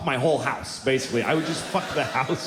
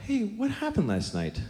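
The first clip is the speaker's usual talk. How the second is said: put-on quoting the girl; 8 semitones higher, 4 dB quieter than usual. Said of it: "she goes".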